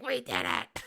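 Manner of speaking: high mock choked-up cheer; strangled, high-pitched imitation of a celebrating fan; choking on his tongue. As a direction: imitate a guy tripping over his tongue. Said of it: "He, like, choked on his s-, tongue".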